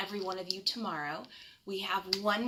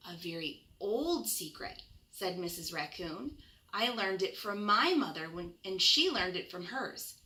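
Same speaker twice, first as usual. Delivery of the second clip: gentle bedtime storybook reading; reading to children. Acted. Reads picture book to children.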